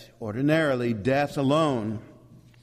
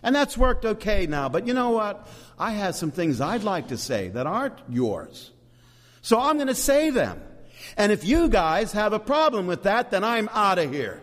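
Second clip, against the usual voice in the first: lightly acted, higher-pitched complaint; Holy Spirit; 5 semitones higher than usual. Preacher voicing the Spirit confronting Father and Son, mock complaint. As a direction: push the pitch up as if laying down terms. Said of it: "And the Spirit says".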